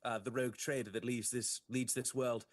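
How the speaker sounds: lightly theatrical Inquisitor pledge; courteous Inquisitor. Acted. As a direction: pledge help with formal assurance. Plays Inquisitor making a promise.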